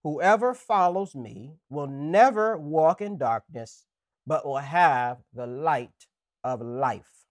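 slow, measured reading of the verse; solemn scripture reading. Acted. Pastor opening the sermon with scripture, slow and solemn. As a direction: read it slowly like holy text.

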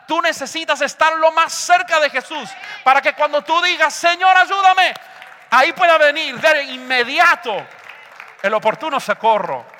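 building to a loud, high cry; impassioned preaching shout. Real, not acted. Preacher urging believers to stay close to Jesus, impassioned shout. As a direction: drive it up to a full-voiced plea.

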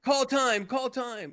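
high mock exclamation. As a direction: voice jumps way up, playful. Acting out calling the time line.

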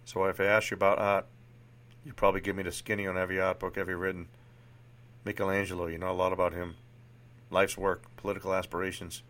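lightly attempted Boston accent; amateur Boston accent, even-pitched; Sean, Boston accent. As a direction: play a frank psychiatrist with a rough Boston accent. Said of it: "Forgive my horrible Boston accent here".

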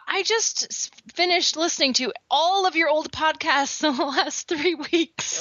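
lightly voiced gushing fan; high-pitched fan voice. Listener quote, high voice.

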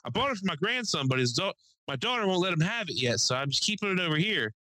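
put-on old neighbor. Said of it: "he's how he talked".

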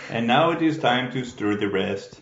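lightly imitated Japanese-French accent; Japanese-French dog narrator. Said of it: "the dog's voice is like".

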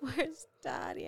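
high, soft, slow little voice; small child asking. Retold or imitated. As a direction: ask like a sad toddler. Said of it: "he was like".

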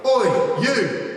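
loud, high yell across the campus; shouted call. Retold or imitated. A big lad shouting at the speaker across the quad. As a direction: bark it out to get his attention. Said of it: "one of them shouted at me".

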